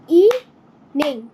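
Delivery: इवनिंग drawn out slowly in beats; slow syllable demo. Shown as a demonstration. Teacher to pupils, slowly clapping syllables. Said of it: "teacher repeats slowly".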